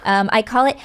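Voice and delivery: ordinary talk, nothing marked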